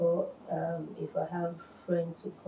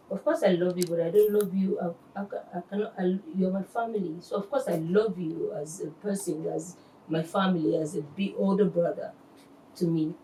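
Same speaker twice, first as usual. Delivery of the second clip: louder, insistent retelling of an objection; retold protest; 6 dB louder than usual. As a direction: protest emphatically while recounting an argument.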